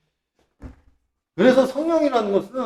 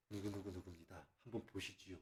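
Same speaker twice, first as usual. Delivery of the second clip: hushed, much softer and lower plea; humble introduction; 11 semitones lower, 33 dB quieter than usual. Shown as a demonstration. Preacher demonstrates introducing someone to God, hushed and humble. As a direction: murmur it respectfully to the Father. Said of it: "이런 식으로".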